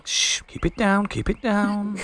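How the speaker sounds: hushed. Acted. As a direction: shush her nervously. Treble hushes her nervously.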